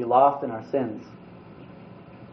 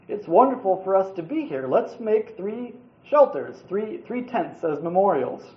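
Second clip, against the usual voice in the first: higher-pitched, mildly acted bewilderment; confused and shocked; 4 semitones higher than usual. Preacher voices a disciple at an amazing sight, confused shock. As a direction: lightly play a stunned, confused disciple blurting out. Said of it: "the confusion and shock in his voice".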